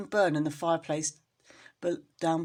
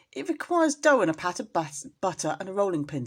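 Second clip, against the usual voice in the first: Anna Maria; 3 dB louder than usual. Acted. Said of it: "said Anna Maria".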